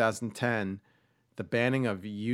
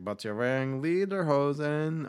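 higher, drawn-out mock bafflement; incredulous movie character; 6 semitones higher than usual. Man questioning the Swede on the train, hammed-up bafflement. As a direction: play up the puzzlement, stretching "lederhosen". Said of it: "And he's like".

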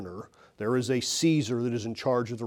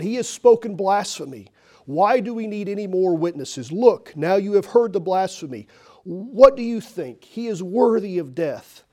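outraged shout; 7 semitones higher, 6 dB louder than usual. Acted. High priest tears his clothes.

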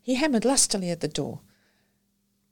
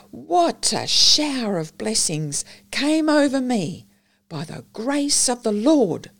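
lay preacher sermon; 2 semitones higher than usual. Acted. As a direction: rouse the congregation with homely zeal.

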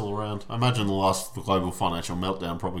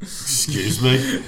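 laughing mock outrage; 5 semitones higher, 6 dB louder, much slower than usual. Mock offence at a jibe.

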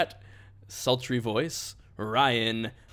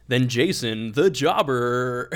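drawn-out introduction, building to the name; announcer intro; 4 dB louder, much slower than usual. Real, not acted. Host introduces a fellow podcaster, announcer intro. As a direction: stretch out the co-host's nickname like a ring announcer.

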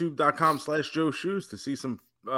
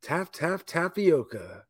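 Happy Gilmore line. Retold or imitated. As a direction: coax it like a golf coach. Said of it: "it's like Happy Gilmore".

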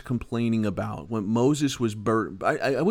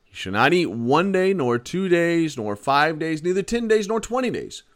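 each phrase pitched higher until nearly shrieking; rising build; 5 semitones higher than usual. Acted. Preacher reading God's warning to the complaining people, pitch climbing. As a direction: climb higher with every number of days.

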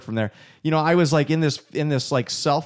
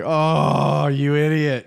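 mock self-rebuke, a bit higher; self-scolding; 5 semitones higher, 5 dB louder, much slower than usual. Husband scolding himself over daughter's words, mock. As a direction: scold yourself in a put-on voice. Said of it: "I was like".

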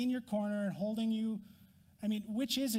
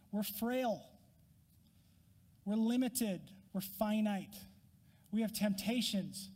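whiny complaint; 2 semitones higher than usual. Pretend. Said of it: "There's a real whine in that tone".

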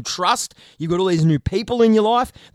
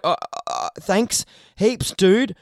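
speechless; slower than usual. Retold or imitated. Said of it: "I get speechless and I'm just like".

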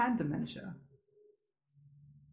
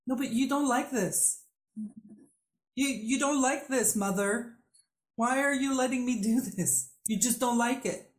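insistent inner voice; 5 semitones higher than usual. Retold or imitated. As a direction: replay the stubborn voice in your head, pressing. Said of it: "didn't get stuck in my head saying".

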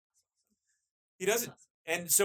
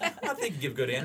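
imitated Southern accent, played for laughs; 2 semitones higher than usual. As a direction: do a light take on his Southern accent. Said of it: "I gotta do his, his, you know, Southern accent".

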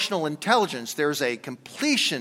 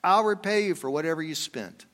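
Samaritan's instruction; 6 semitones higher than usual. Acted. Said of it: "gave them to the innkeeper and said".

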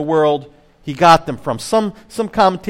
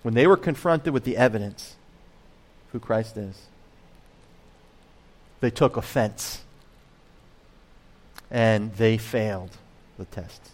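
plain; 6 semitones lower, 7 dB quieter than usual. Shown as a demonstration. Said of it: "That's what I think happens here".

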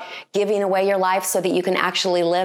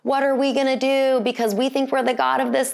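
mock panic; 6 semitones higher than usual. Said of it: "We could have been like".

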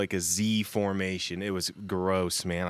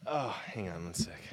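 whispering; 8 dB quieter than usual. Real, not acted. Aside while answering the phone.

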